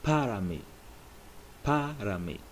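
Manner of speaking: para mí said clearly, PAH-rah MEE; Spanish phrase. Shown as a demonstration. Teacher repeats para mí for learners. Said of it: "it's pronounced".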